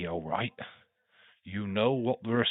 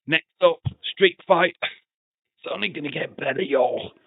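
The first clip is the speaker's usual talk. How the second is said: loud, higher hype call for the next match; hyped announcement; 8 semitones higher, 6 dB louder than usual. Real, not acted. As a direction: announce it like a ring hype man. Hyping the next match to viewers.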